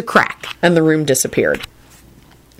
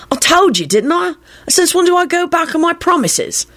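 much higher, playful and mocking; high teasing voice; 13 semitones higher than usual. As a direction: lift it way up, teasing. Ghost Sirius teasing Lupin.

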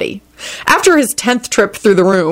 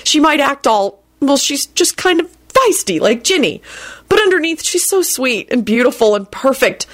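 higher-pitched lovestruck musing; dreamy adoration; 6 semitones higher than usual. A narrator's reading. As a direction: gush dreamily about the one you adore. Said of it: "he thought dreamily".

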